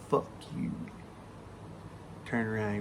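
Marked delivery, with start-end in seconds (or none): 0.1-0.7 whispered on a long breath; smoker's exhaled retort. Retold or imitated. Beaten buddy answering after a long drag, breathy whisper. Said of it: "took a big old drag off that cigarette".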